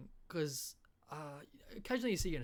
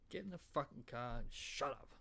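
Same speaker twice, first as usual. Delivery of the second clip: gruffly ordering Aussie dad, lightly acted; Australian accent. Aussie dad ordering Luke into the car, Australian accent. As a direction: tell the kid off in broad Australian. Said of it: "in an Australian accent".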